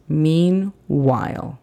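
"meanwhile" drawn out slowly with a clear L; slow model word. Shown as a demonstration. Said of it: "Se interrumpe y no se entiende exactamente".

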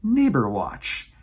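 slow, proud title repeat; repeated title announcement. Shown as a demonstration.

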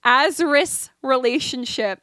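emphatic read-out of a fan opinion; lively, deliberate post reading; reading aloud. Acted. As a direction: read it out like a bold declaration. Reads a TikTok theory aloud.

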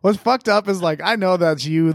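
ordinary talk, nothing marked

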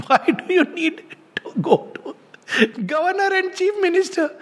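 an amused, chuckling retort to a name-dropper; amused laugh. Retold or imitated. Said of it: "I was feeling amused".

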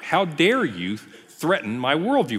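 slow, mildly indignant retort; imitated angry protest, spaced out slowly; mock anger. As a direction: act out someone taking offence, drawn out. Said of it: "is to get angry".

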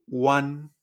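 WAN said slowly as in Spanish; pronunciation demo. Shown as a demonstration. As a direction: say WAN like Spanish "uan", an open a. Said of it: "siempre la vamos a decir".

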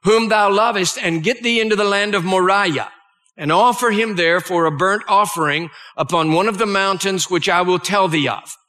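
measured, solemn Bible reading; solemn scripture reading to a congregation. Acted. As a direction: read the old King James words with weight. Reads Genesis passage aloud.

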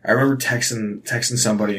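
ordinary delivery

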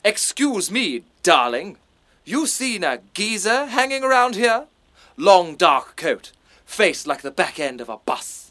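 put-on refined posh accent on a tough-guy line; posh accent where Cockney is wanted; posh actor playing a Cockney. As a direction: plays the heavy in his own plummy voice. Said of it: "You're far too posh, mate".

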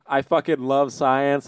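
slow sneering "I fucking love science" as a slogan; mock the Facebook page with "I fucking love science"; contemptuous "I fucking love science", drawn out. Shown as a demonstration. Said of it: "I was joking".

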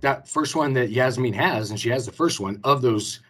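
normal talking voice

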